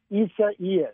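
"Isa Ias" as ee-sah-EE-us; "Isa Ias" sounded out in two parts, ee-sah, EE-us; Weather Channel pronunciation. Retold or imitated. Forecaster relaying the Weather Channel's version, careful pronunciation. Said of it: "and they pronounce it".

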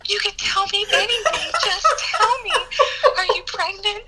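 high, coaxing imitation of a sympathetic mother; hammed-up motherly sympathy, pitched high; nurturing mom. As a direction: plead sweetly, like a concerned mom. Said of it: "so nurturing".

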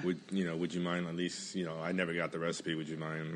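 soft, pleading request; pleading softly. Pretend. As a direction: play it sad and small. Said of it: "give 'em, like, a little sob story".

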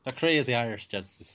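put-on weird-sounding Irish accent with a British tinge; attempted Irish accent. Podcast guest teasing about gypsies, bad Irish accent. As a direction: try an Irish accent and miss. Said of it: "British accent doing an Irish accent sounds very strange".

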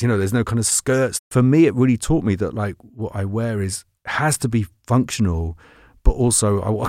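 ordinary talk

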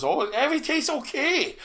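high-pitched mock Asian accent; fake Asian accent. Chef checking on complaining diners, fake Asian accent. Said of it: "I put on my fake Asian accent".

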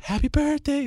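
high-pitched put-on Asian accent; imitated Asian-accented woman. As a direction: mimic the girl's greeting in a high Asian accent. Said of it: "the Asian voice was like".

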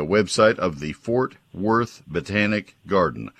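slow, careful, each word spelled out; over enunciating. Shown as a demonstration. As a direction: say it slowly and clearly for listeners. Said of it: "I say it slowly".

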